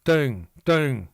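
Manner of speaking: New York accent saying "Thing" as "ting", no th sound. Shown as a demonstration. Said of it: "not thing, thing".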